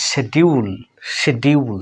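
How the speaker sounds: "শিডিউল" as she-di-ul; familiar local pronunciation. Shown as a demonstration. Teacher recalls how learners know schedule, as she-di-ul. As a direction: say "শিডিউল" with a d in the middle. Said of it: "আমরা এটা জানি".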